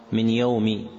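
"يوم" ending in a short i; correct kasra ending. Shown as a demonstration. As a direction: say "من يوم" as min yawmi. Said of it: "فالصواب من يوم".

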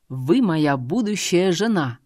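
slow, rumbling pronouncement; lightly voiced imperious man; rumbling lord. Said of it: "пророкотал мужчина".

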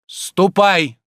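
loud, high "Ступай!" barked as an order; commanding shout. A narrator's reading. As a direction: dismiss him like a lord. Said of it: "повелительно крикнул Обломов". (повелительный окрик)

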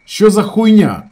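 high, loud outburst; angry shout. A narrator's reading. Ravzan shouts into the dispute, angry. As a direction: burst out with it.

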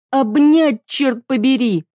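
wife screaming at her partner; shout. Acted. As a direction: burst out on the last words. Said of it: "закричала на последних словах".

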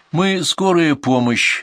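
calm, slow and polite; slowly and politely, a doctor on a call; вежливо. Acted. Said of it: "вежливо". (вежливо и неторопливо)

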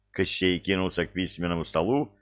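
ordinary delivery

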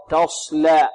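تصلى with rounded lips on ص; wrong rounded sad. Shown as a demonstration. Teacher warns against this habit, wrong rounded sad. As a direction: purse the lips through the ص of تصلى. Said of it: "ولا نضم الشفتين في الصاد".

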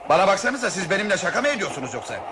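fast, laughing disbelief; incredulous laugh. Acted. The traveller laughing in disbelief at the plan. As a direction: laugh it off as a joke.

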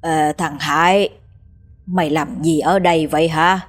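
put-on slurring tipsy old boatman; tipsy, slightly slurred voice; drunk. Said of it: "giọng nói ngà ngà đầy men rượu".

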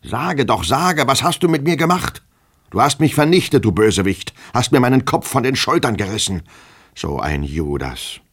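high, loud furious outburst; snorting with rage. A narrator's reading. Master raging at his drunken servant, furious and high. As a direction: rage at him, voice climbing. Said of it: "schnaubend vor Wut".

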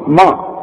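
ما with a thick back "aa"; wrong heavy mim. Shown as a demonstration. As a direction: show ما wrongly darkened. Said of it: "لا". (ما مفخمة غلط)

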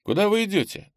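tentative, guarded asking; cautious question. A narrator's reading. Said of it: "осторожно спросил Кенни".

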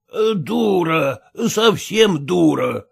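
slow, dismissive muttered scorn, lightly voiced; scornful husband. Husband scolding his wife, slow and scornful. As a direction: brush her off slowly. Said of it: "отвечал Накатов".

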